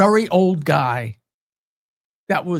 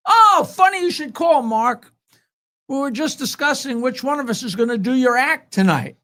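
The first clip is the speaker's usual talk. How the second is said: high, louder opening, breezy mock-innocent greeting; playing innocent on a prank phone answer; totally innocent; 3 semitones higher, 4 dB louder than usual. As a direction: act as if the call is a happy coincidence. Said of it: "totally innocently".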